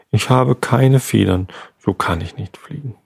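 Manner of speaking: sobbing. Acted.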